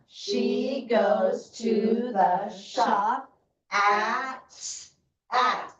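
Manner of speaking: "She goes to the shop at" stretched very slowly; slow choral reading. Shown as a demonstration. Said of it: "so it's gonna go like this".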